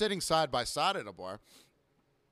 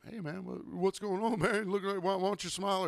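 higher-pitched, hesitant patron imitation; fumbling buddy-buddy voice, pitched up; mock pestering customer; 5 semitones higher than usual. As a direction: mimic someone awkwardly nudging a bartender. Mimics customer telling him to smile.

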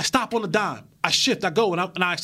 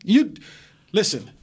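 Star Voice; 9 semitones lower than usual. Pretend. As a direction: drop it low like sharing a secret. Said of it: "Conspiracy voice".

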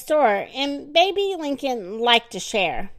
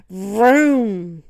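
sleepy car noise; 3 semitones lower, 5 dB louder than usual. Acted. Dreaming of driving fast car.

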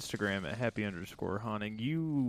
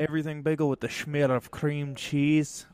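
a hammed-up New York Jewish accent, louder, leaning on schmear; mock Jewish accent; 3 semitones higher, 7 dB louder than usual. Podcast host joking to his cohost about bagels in a mock Jewish accent. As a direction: play the deli regular, stretching the word schmear. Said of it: "I was trying to go Jewish".

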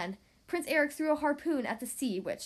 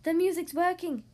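crab voice; 4 semitones higher, 4 dB louder than usual. Acted. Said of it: "said the crab".

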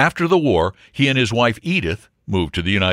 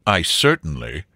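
mildly severe, lower voice; severe reply; 5 semitones lower than usual. Acted. Wilfred answers the intruding baronet, mildly severe. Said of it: "replied Wilfred severely".

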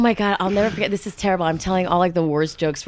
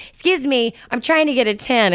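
snooty sunbather; 5 semitones higher than usual. Retold or imitated. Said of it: "that's what she says".

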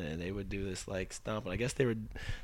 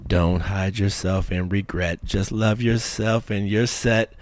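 slow, deliberate recital of lyrics; lyric read aloud; much slower than usual. Shown as a demonstration. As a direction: read it out slowly, building to the last line. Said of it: "I'm just gonna read it".

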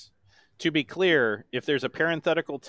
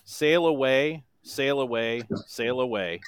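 slow, flat reading of lyrics; monotone voice. Shown as a demonstration. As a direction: speak the song, don't sing it. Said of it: "in my best monotone voice".

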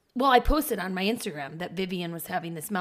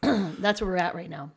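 slightly wheezy after laughing. Real, not acted. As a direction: wheeze through the line. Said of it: "I don't know why I'm so wheezy".

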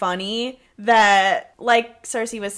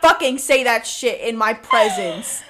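mock furious; 3 semitones higher, 4 dB louder than usual. Host riffing on the diabetic character, in a laughing mock scold. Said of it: "She said".

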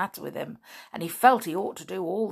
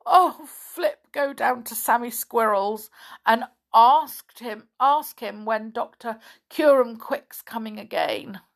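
loud pleading call; 3 semitones higher, 4 dB louder than usual. Acted. Binkle sending Flip to Sammy, pleading call. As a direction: beg Flip to go now.

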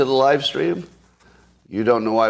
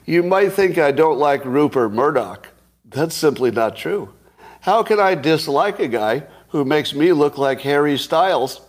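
quoting Biden joke; 4 semitones higher than usual. Retold or imitated.

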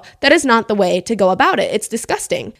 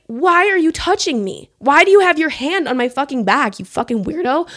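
retold indignation; 5 semitones higher than usual. Retold outburst at man touching her.

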